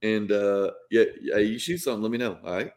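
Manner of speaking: Southern hunting-buddy talk; Southern accent. Shown as a demonstration. Mississippi man talking to hunting buddies, Southern accent. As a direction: turn on the country Southern accent. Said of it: "Do you turn it on".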